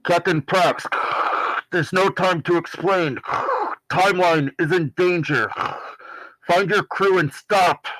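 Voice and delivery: high, urgent radio transmission; urgent warning in bursts over a failing link; breaking-up communicator message. Acted. Unknown caller warning the captain over a communicator, urgent and high. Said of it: "And it cuts out".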